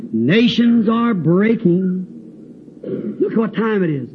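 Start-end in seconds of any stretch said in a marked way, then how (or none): 0.1-2.1 slow, measured hymn lines; old hymn recitation. Retold or imitated. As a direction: recite like verse, drawing it out. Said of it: "As the old song says".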